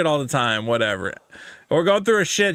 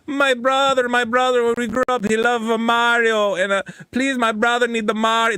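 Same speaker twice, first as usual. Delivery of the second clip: mock Hispanic accent; 6 semitones higher than usual. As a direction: beg sweetly in a put-on Hispanic accent. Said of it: "messages from the Hispanics where they go".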